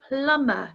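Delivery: plumber, B left out; plumber with silent B. Shown as a demonstration. Teacher models plumber for learners, silent B. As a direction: model plumber without any B sound. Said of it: "We don't pronounce the B".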